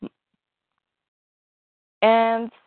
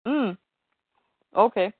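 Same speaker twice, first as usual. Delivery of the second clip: mouth full. Real, not acted. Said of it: "I just got food in my mouth".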